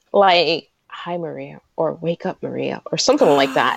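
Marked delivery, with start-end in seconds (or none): 0.9-2.8 mock singer wake-up call. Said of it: "I wanna record him".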